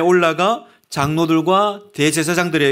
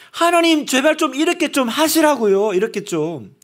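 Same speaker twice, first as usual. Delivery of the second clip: pleading; 7 semitones higher than usual. Retold or imitated. Believer pleading with God.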